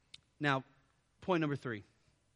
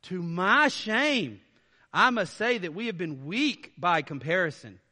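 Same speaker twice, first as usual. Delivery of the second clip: sarcastic; 4 dB louder than usual. Shown as a demonstration. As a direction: pretend to apologize with a sneer. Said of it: "he's using this sarcasm of going".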